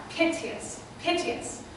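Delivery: piteous whispered, fading away; piteous breathed out, dying away on the end; trailing off. Shown as a demonstration. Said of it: "the word trails off".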